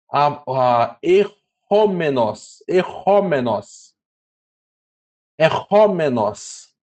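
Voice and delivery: errômenos said slowly, each syllable clear: er-rô-me-nos; teacher slowly sounds out errômenos for the class; careful Greek word reading. Shown as a demonstration. Teacher to students reading a Greek word, slow careful pronunciation. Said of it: "aqui, ó".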